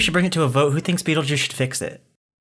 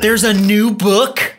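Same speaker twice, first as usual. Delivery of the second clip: surprised; 7 semitones higher, 6 dB louder, slower than usual. Acted. Surprised at news of new book.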